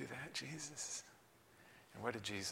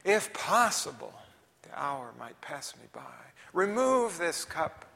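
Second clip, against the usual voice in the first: dramatic prayer read; 4 semitones higher than usual. Shown as a demonstration. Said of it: "How many different ways can you say".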